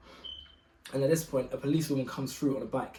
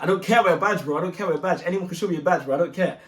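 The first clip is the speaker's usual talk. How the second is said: angry retort; 3 semitones higher, 4 dB louder, faster than usual. Retold or imitated. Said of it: "This guy was angry".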